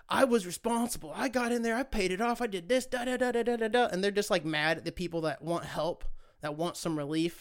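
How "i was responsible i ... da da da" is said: lightly voiced self-satisfied payer, pitched higher; mock them as smug and pleased with themselves; a light parody of someone proud of paying. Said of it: "these fucking people are like".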